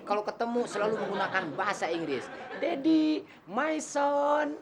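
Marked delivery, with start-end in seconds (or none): 2.6-4.6 imitating rich folks. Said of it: "kalau orang kaya tuh begini".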